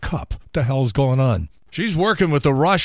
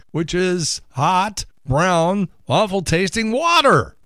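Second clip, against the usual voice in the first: disgusted; 6 semitones higher, slower than usual. Acted. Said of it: "repeats line with disgust".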